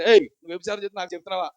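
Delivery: mock confrontational challenge; acted stabbing reproach; cutting accusation. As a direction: call someone out with a wounding jab. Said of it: "కత్తిపోటు మాట ఎలా ఉంటుందంటే".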